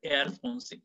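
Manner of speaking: "air français" with throaty uvular R; French R. Shown as a demonstration. Teacher urges learners to try the French R in "air français". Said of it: "try the French R".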